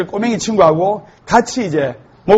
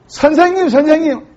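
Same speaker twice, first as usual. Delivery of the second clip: put-on higher childlike call; child calling; 6 semitones higher than usual. First graders calling their teacher, higher childish voice. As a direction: pipe up like a small kid.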